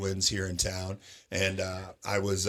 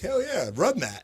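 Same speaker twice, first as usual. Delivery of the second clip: high, slow gloating cheer; triumphant; 10 semitones higher than usual. Retold or imitated. DJ gloating to his boss, high and triumphant. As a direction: crow it like a winner, pitched way up. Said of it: "I'm like".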